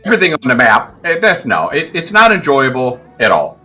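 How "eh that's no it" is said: ordinary talk, nothing marked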